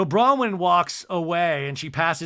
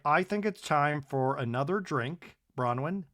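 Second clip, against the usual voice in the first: soothing husband; 3 dB quieter than usual. Retold or imitated. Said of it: "And Todd's like".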